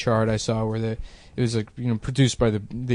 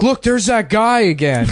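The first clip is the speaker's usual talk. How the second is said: put-on higher-pitched childish exclamation; excited little kid; 8 semitones higher, 4 dB louder than usual. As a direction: point him out loudly, imitating your younger self. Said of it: "I was like".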